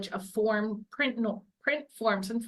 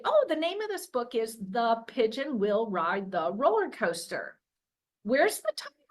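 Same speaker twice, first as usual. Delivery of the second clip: put-on reading aloud to a child. Shown as a demonstration. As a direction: show a young child the book cover, playfully. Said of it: "I would say".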